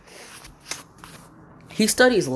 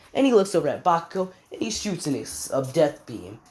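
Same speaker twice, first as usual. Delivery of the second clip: ordinary delivery, nothing marked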